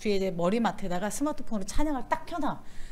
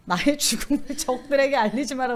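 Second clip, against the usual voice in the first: mock Yi Sun-sin. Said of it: "저 이순신인가 봐".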